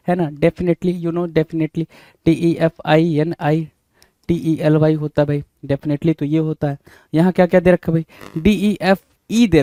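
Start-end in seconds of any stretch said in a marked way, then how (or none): 2.2-4.9 slow spelling. Shown as a demonstration. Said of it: "teacher spells word slowly".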